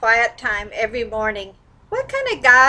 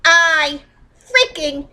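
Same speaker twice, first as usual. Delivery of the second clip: venting anger; 3 semitones higher than usual. Shown as a demonstration. Tapping session, venting at the ex, raised angry voice. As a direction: let rip at whoever jilted you. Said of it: "roaring mad while you're tapping and cussing".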